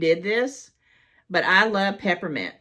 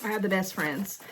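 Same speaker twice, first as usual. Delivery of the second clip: touched; 5 dB quieter than usual. Real, not acted. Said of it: "not about me getting emotional".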